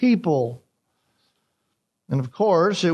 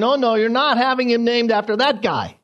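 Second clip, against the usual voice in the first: lightly voiced scornful wife; a hint of dismissing that guy; mild mock scorn; emphatic; 3 semitones higher than usual. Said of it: "She was emphatic about it".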